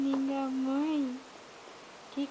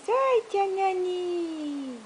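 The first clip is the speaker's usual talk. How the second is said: sing-song prompt; 4 semitones higher, much slower than usual. Real, not acted. Mother prompts baby to greet.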